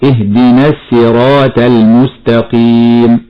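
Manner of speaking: الصراط said with a plain ت in place of ط; showing the mistake slowly; deliberate error. Shown as a demonstration. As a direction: demonstrate the wrong الصراط with a light ت. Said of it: "هكذا خطأ".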